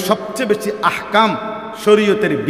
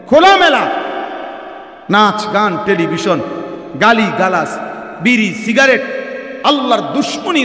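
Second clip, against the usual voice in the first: full force preaching; 3 semitones higher than usual. Real, not acted. Preacher denouncing open sins to the crowd, thundering. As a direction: hammer each sin home from the pulpit.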